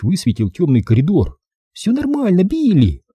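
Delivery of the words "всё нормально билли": put-on high, light girl's voice; lightly voiced reassuring girl. A narrator's reading. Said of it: "сказала она".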